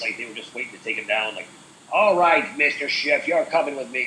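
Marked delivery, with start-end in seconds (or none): 1.9-4.0 put-on hearty old-fashioned lawman, louder at the start; old-timey voice. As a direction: play a lightly voiced old-timey cop. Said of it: "like, a real old-timey voice".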